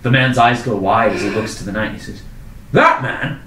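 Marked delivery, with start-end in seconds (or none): 2.7-3.4 rising, louder shock from the local; alarmed townsman. Acted. Townsman horrified the knight left her with a vampire. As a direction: panic rising, then a shout.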